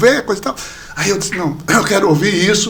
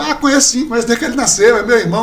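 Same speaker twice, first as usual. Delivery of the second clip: higher, playful retold reply; joking brother; 4 semitones higher, faster than usual. Brother jokes about knowing him since birth, higher and playful. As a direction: imitate a brother joking along. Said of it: "Ricardo até brincou".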